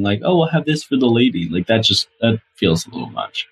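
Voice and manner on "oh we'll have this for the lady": mildly imitating a condescending diner; mock patronizing. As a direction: lightly act out ordering on someone's behalf. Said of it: "like, patronizing".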